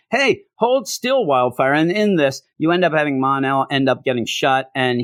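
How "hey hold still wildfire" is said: drawn-out, higher mock line; slow mocking read. Reviewer mocking a comic line, slow and raised. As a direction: stretch it out to mock the dialogue. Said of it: "and then".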